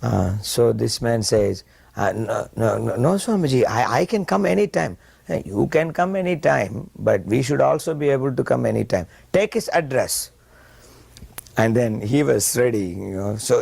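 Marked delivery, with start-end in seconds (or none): 2.1-5.0 high, rising pitch of polite protest; protesting businessman. Retold or imitated. Businessman to Prabhupada, waving off the request, high protest. 5.3-10.3 raised, firm insistence; insisting guru. Retold or imitated. Prabhupada to the businessman, insisting firmly at a raised pitch.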